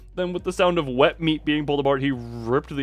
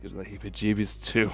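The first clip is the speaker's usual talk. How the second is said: lazy Southern twang, lower voice; Southern accent; 4 semitones lower than usual. Acted. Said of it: "Southern accent".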